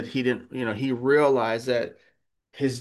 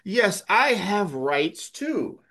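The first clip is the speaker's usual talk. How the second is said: raised, fervent preaching voice, higher in pitch; 9 semitones higher than usual. Acted. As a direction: preach it with rising conviction. Preacher voicing Paul, raised.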